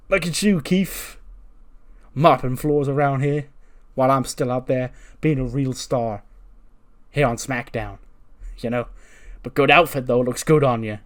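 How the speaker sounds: lightly acted mocking wrestler; a touch of gloating; taunting rival.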